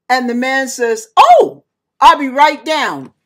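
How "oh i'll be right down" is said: loud, high, drawn-out "oh"; eager to oblige. Retold or imitated. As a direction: jump at the chance, louder than usual. Man suddenly eager for stranger.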